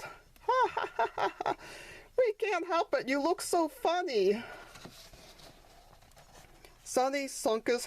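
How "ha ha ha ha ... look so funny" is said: high teasing ha-ha-ha from the brothers; mocking laughter. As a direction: laugh at him, then tease. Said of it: "His brothers laughed".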